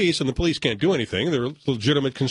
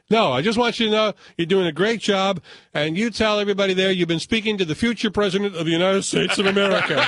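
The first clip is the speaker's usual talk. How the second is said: put-on drunk voice; 5 semitones higher than usual. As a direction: lightly play a tipsy caller. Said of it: "the drunk voice".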